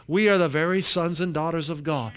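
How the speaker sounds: preacher proclaiming a Bible passage; emphatic scripture reading. Acted. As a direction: read it as a declaration, lifting the key phrases. Reads the passage at length.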